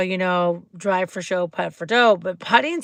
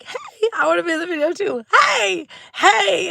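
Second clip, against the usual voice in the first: put-on excited girl; 10 semitones higher than usual.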